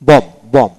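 "বম" ending on m, final b unsounded; বম, twice, with no b at the end; silent b. Shown as a demonstration. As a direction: say বম and stop on the m. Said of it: "বম কিন্তু বি উচ্চারিত হবে না".

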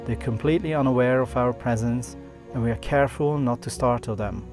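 calm documentary voiceover; nature documentary. A narrator's reading. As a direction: narrate the wildlife scene calmly. Narrated voiceover over music.

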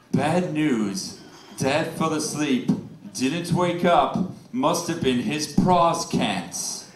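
slow, flat reading of the text; slow deadpan text reading. Retold or imitated. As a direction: read it slowly, deadpan. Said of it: "the death text".

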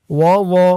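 second ওয়া with a soft, heavy th-like zo; soft articulation. Shown as a demonstration. Teacher showing learners the soft letter in ওয়া. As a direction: keep the consonant of ওয়া soft, tongue at the teeth. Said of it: "এই ওয়াটাকেও সেভাবে উচ্চারণ করতে হবে".

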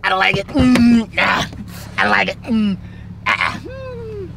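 halting, mumbled refusal; mock a guy too shy to answer; lightly mocking stammer; mumbling awkward friend impression. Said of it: "You're like".

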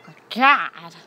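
loud startled gasp; surprised. Retold or imitated. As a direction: retell the shock. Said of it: "I was like".

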